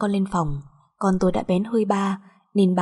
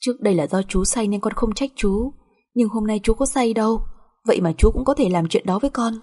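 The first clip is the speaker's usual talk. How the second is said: tearful reproach; 2 semitones higher than usual. Acted. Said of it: "Tôi ấm ức đến mức rơi nước mắt".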